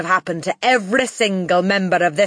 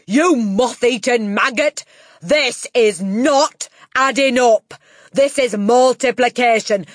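loud, high, raging tirade; Trunchbull; 8 semitones higher, 9 dB louder than usual. A narrator's reading. Headmistress correcting a boy's multiplication, furious yelling. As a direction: yell it emphatically, pounding the key words. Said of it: "yelled the Trunchbull".

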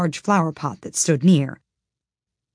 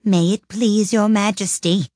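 higher-pitched, deferential servant's voice; very humble; 4 semitones higher, 4 dB louder than usual. A narrator's reading. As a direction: address the monarch humbly. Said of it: "in a very humble tone".

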